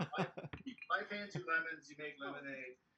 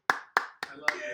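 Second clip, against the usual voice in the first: gushing; 10 dB louder, much slower than usual. Pretend. Gushing about the host.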